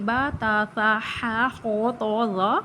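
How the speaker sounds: Arabic-style با، تا، سا ending in a long a; Arabic letter names. Shown as a demonstration. Teacher models the correct Arabic letter names. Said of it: "بلکہ ... پڑھیں".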